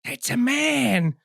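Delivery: high, slow Italian cabbie; Italian accent. Retold or imitated. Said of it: "Italian, like, cab driver's like".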